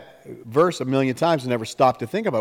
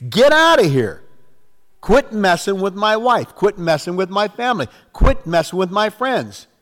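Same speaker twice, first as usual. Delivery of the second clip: loud, high commanding rebuke; great authority; 5 semitones higher, 3 dB louder than usual. Acted. Believer ordering the enemy away from wife and family, authoritative command. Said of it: "say that with great authority".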